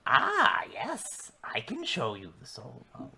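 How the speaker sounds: crone voice. Acted. Hag offers, hushed.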